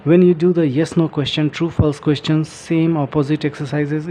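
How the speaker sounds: slow, careful reading from the book; reading aloud. Shown as a demonstration. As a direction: read each phrase out slowly for learners. Reading book text aloud slowly. (किताब से धीरे-धीरे पढ़ना)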